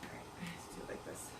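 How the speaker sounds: whispered aside; whispering. Real, not acted. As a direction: whisper it to yourself. Aside while setting timer.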